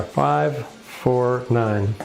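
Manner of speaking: slow drawn-out dice call; craps table caller. Pretend. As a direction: call the roll like a stickman. Calling out the dice roll.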